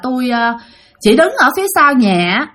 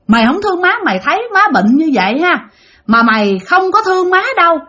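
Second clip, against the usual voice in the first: higher-pitched retold scolding; mắng con dâu; 4 semitones higher than usual. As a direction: scold her in a raised pitch, moderately angry. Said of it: "bà hai chửi bà Út". (giọng trách mắng cao, kể lại)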